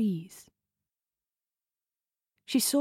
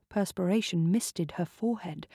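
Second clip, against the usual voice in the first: ordinary delivery, nothing marked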